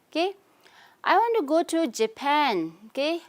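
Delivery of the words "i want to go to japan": "Japan" stressed, higher and clear. Shown as a demonstration. Teacher demonstrating sentence stress to students, stress on JAPAN. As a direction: lean on "Japan" at the end. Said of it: "Japan is stressed".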